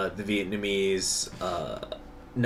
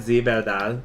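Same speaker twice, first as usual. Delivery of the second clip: put-on German accent; faster than usual. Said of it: "we speak Spanish in the German accent".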